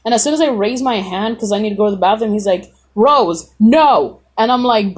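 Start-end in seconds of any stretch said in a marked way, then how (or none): 3.0-4.2 louder, sharp refusal imitating a teacher; mock teacher's stern telling-off; retold teacher scolding. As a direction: cut the student off firmly. Teacher cutting a student off.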